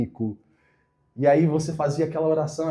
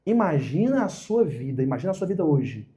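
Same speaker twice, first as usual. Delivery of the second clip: guided imagining. Shown as a demonstration. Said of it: "Presta atenção, imagina a sua vida hoje".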